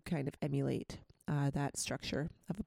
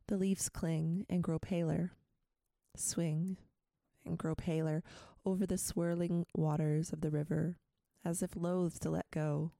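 poem reading. Acted. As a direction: read the poem gently, line by line. Reads a poem aloud.

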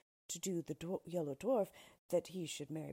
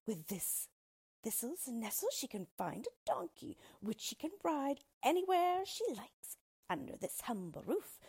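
lightly voiced vain little dwarf, somewhat higher; boastful dwarf; 5 semitones higher than usual. Dwarf boasting of his cottage to queen, vain. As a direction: preen and brag.

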